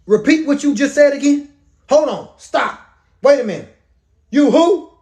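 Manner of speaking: high-pitched mock shock; incredulous disbelief. Isaac questioning the son claiming to be Esau, incredulous. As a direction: halt them in stunned disbelief.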